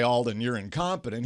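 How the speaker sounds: quietly restating the words he never said. Retold or imitated. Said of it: "he really didn't say".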